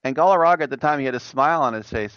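ordinary talk, nothing marked

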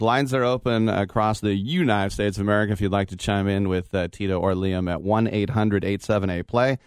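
upbeat announcer voice going to break; announcer sign-off into commercial; radio break read. Acted. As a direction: sell the phone lines like a radio host. Host reads the break.

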